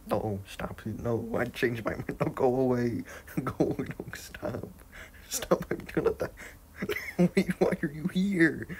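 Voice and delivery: loud, high panicked yells; panicked yelling. Real, not acted. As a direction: shout in a frantic panic.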